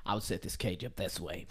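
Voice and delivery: whispered very softly into the closet. Retold or imitated. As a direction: breathe it out barely audible. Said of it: "But I would whisper it really soft like that".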